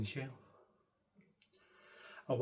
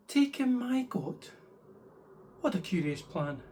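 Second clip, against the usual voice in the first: puzzled question; 7 semitones higher than usual. Acted. Old lady puzzled by the wise man's odd advice. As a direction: ask it in disbelief.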